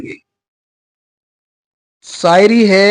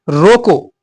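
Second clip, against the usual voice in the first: "रोको" said firmly, then a clear pause; pause after रोको; 4 dB louder, much slower than usual. Shown as a demonstration. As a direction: stress "रोको", then stop short of the next word. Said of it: "बोलते समय रुकेंगे".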